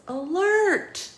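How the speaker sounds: high electronic alarm voice; robotic watch alert. A narrator's reading. Watch warns Pete, high robotic alarm voice. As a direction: call it out like a beeping gadget.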